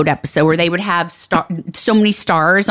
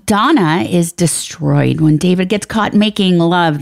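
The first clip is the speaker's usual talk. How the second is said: dramatic reading. Acted.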